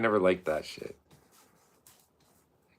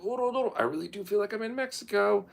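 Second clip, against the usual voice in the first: tipsy gushing; 13 semitones higher than usual. Retold or imitated. Tipsy diner gushing over restaurant.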